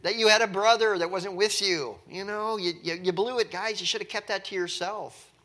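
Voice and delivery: loud, high, exasperated scolding; frustrated father. Retold or imitated. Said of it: "He's like".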